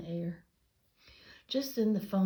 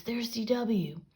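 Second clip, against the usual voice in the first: slow, higher, louder call; 5 semitones higher, 5 dB louder, slower than usual. A narrator's reading. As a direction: drag it out teasingly. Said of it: "shouted the Tibble twins".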